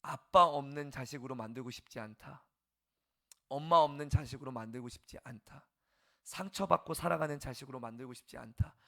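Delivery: loud, determined vow, each line rising; earnest parent's vow. Retold or imitated. Parent vowing never to hurt the children, loud determined vow. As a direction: declare it like a parent's oath. Parents' resolve voiced loudly.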